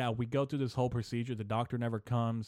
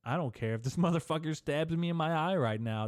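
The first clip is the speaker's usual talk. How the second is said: higher pitch, laughing through it; amused bravado; 6 semitones higher, 3 dB louder than usual. Retold or imitated. Stoned patient past caring in the chair, laughing bravado. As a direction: laugh mid-line, playing up not caring. Acting out carefree high patient attitude.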